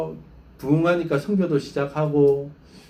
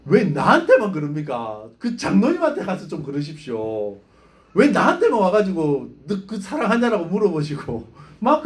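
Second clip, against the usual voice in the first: retold protest, louder and slowed; arguing with God; 3 semitones higher, 3 dB louder than usual. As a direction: plead and argue back at God, half-mock. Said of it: "막 따졌대요".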